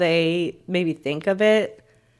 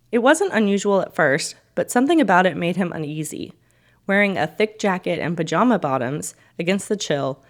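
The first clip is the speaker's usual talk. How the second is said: story narration. A narrator's reading.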